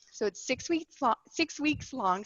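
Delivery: out of breath after a workout. Real, not acted. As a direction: still catching your breath between words. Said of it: "Sorry, I'm still catching my breath".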